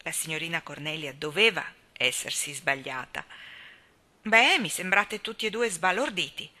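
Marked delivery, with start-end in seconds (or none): 4.2-6.5 lightly amused, teasing their shock; a dry, ironic jab at the stunned pair. Acted. Cornelia teasing Anna and Gilbert, lightly ironic. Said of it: "con un guizzo di ironia negli occhi".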